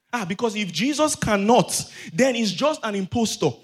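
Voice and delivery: insistent sermon argument, repetition building; forceful preaching. Real, not acted. Preacher argues what Jesus would be if powerless, insistent preaching. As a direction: drive each charge home to the congregation.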